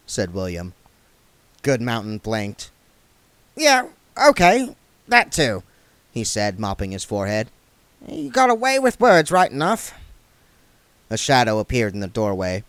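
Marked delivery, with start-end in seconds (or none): 3.6-9.9 higher, halting put-on dwarf voice; dwarf unsure how to help a vampire; flustered dwarf. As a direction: stumble over the question. Goodmountain voice.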